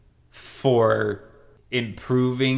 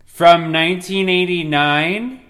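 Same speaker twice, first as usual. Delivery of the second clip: loud accusing yell, louder; jealous outburst; 7 semitones higher, 9 dB louder, slower than usual. Acted. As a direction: confront her with jealous fury. Jealous confrontation over diary.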